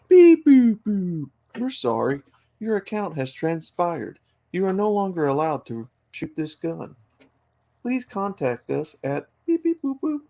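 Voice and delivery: beeping automated gun voice, robotic; toy robot voice. Pretend. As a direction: read it like a cheap machine announcement. Smart gun shutting off owner.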